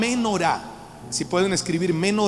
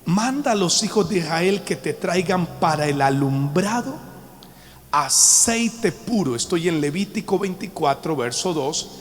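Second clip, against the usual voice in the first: scripture reading. Acted. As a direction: read the verses out as holy text. Reads Leviticus aloud.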